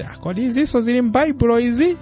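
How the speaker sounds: surprised listener. Retold or imitated. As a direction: gasp it out in disbelief. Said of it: "zina unkamamva mwati".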